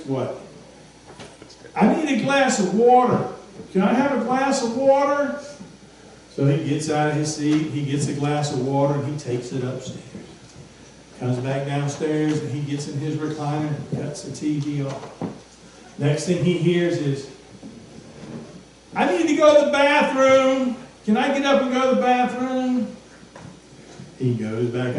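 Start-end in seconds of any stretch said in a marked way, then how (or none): 1.8-5.4 put-on high voice of a child asking for water; a child pleading from bed; child calling from bed. Preacher voicing a child calling downstairs for water. 19.0-23.0 put-on high child's voice asking for the bathroom; child calling from bed. Preacher voicing a child asking to go to the bathroom.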